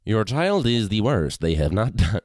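slow stiff machine voice; robot voice. Pretend. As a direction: read it like a flat computer. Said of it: "All right, cue the robot".

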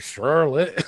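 "Charlotte" with a clear American R; Rhea Ripley. Retold or imitated. Podcaster mocks the wrestler calling out Charlotte, American accent. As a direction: mimic an American-sounding "Charlotte", R fully pronounced. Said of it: "the rest she was sounding like".

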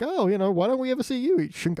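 alien voice. Retold or imitated. Quoting alien dialogue.

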